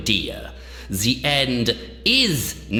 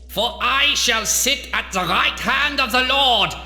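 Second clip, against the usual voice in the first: high-pitched, declamatory fury; grandiose angry rant; 4 semitones higher than usual. Acted. Doctor belittling the man who pitied him, grandiose fury. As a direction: thunder like a mad prophet. Villain rants at his enemy.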